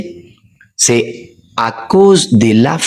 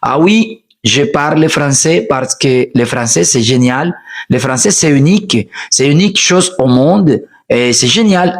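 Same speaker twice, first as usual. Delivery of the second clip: enthusiastic demo. Shown as a demonstration. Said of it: "non, je dis".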